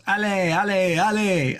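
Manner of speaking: high excited French cheer of allez. Retold or imitated. Friend cheering a passing Frenchman, high and excited. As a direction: call allez allez like a supporter at the roadside. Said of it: "he goes".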